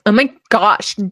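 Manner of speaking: put-on drawn-out valley girl whine; exasperated valley girl act, vowels stretched. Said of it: "he hates when I'm like".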